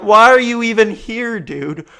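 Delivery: loud, high mock-furious rant; frustrated inner rant. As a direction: rant at them like you're losing it. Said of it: "so frustrated. I'm like".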